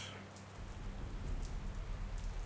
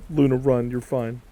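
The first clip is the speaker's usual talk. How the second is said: raised, higher urgent voice; urgent urging; 4 semitones higher, 4 dB louder than usual. Acted. Telling Luna to run and disappear, urgent urging. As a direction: urge someone to flee, voice lifted.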